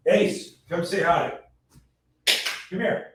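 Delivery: high-pitched call to a dog. Real, not acted. Calls his dog over.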